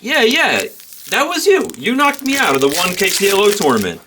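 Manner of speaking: playing the tipsy guy who got knocked out; mimicking drunk Scotty. A retold drunk player pestering a poker pro, high mock voice.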